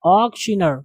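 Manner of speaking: ऑक्शनर opening on a rounded open aw; correct pronunciation. Shown as a demonstration. Teacher showing students ऑक्शनर with a rounded aw. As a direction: start ऑक्शनर with a round aw, not aa. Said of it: "आग नहीं, ऑक".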